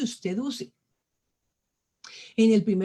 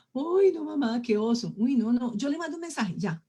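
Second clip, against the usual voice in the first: higher, reluctant daughter's protest; modern young lady; 3 semitones higher than usual. Retold or imitated. Imitated young lady telling mamá she'll just text, mock embarrassed. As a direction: imitate a girl balking at her mother. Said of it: "Las señoritas de ahora dicen".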